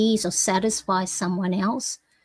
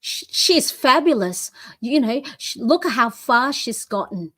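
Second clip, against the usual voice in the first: defending a friend; 3 semitones higher than usual. Pretend. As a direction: stand up for her, firmly. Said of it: "Would you go, defending your friend".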